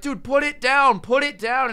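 exasperated friend yelling put it down; urgent plea. Retold or imitated. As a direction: insist he drop it now. Insisting he drop the flamethrower.

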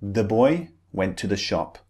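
put-on "the" light and quick, weight on "boy"; unstressed THE. Shown as a demonstration. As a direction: put no emphasis on "the", stress "boy" instead. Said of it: "The is very unstressed".

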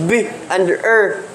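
"B" and "er" sounded apart; separate sounds. Shown as a demonstration. Teacher showing the blend has different sounds, each said separately. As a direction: split the blend into "B", then "er". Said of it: "Lain-lain mo siya ng mga sounds".

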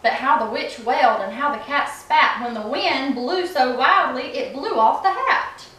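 put-on storybook read-aloud voice for kids; reading to children. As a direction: read it like bedtime story time. Mom reads picture book aloud.

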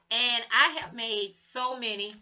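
hoarse, strained voice; a tired voice that's giving out; losing her voice. Real, not acted. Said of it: "I'm losing my voice".

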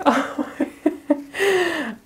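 high delighted burst of laughter; giddy high laugh; happy laugh. Real, not acted. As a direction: laugh out of pure joy. Overjoyed by the card.

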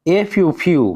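"এফ ইউ" বানান করে "ফিউ"-তে ইউ ধ্বনি টেনে বলা; "ফিউ"-এর শেষে লম্বা ইউ ধ্বনি; ইউ উচ্চারণ দেখানো. Shown as a demonstration. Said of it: "ইউ, ইউ উচ্চারণ করতে হবে". (শিক্ষকের মতো "এফ ইউ ফিউ" ভেঙে উচ্চারণ)

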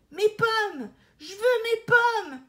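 little brother shrieking for his apples; toddler tantrum. Acted. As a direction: scream like a spoiled little boy. Little boy screams for apples.

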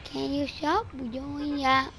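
slow, whiny put-on child voice; fake little kid. Troll protests to bullies, slow fake-kid voice. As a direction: draw it out like a wronged small child. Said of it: "I know you're not a little kid".

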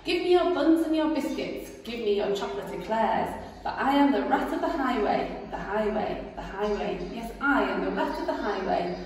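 loud swaggering highway robber; boastful rat. Acted. Rat demanding the rabbit's cakes, swaggering. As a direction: demand it like a bully.

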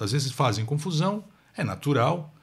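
ordinary talk

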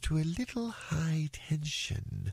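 slow, stately rock snake; pompous python. Acted. Python lectures the rash young traveler, slow and pompous. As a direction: pronounce each phrase ponderously. Python instructs the elephant's child.

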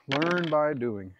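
LEARN stretched out slowly, loud; slow emphatic repeat. Real, not acted. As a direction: draw the motto out at half speed.

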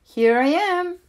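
very high, delighted duckling cry; the little one revealing his trick; Little Quack cries out to Mama, high and gleeful; cried out. A narrator's reading. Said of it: "cried Little Quack".

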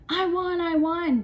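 high, loud victory scream; excited scream. A narrator's reading. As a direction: scream like you won gold. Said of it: "Darren was screaming".

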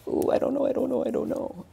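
high, breathy nervous dithering imitating an unsure person; hesitant worrier. Coach imitates hesitant people, high and unsure. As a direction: fret and waver like someone who can't decide. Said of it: "the people".

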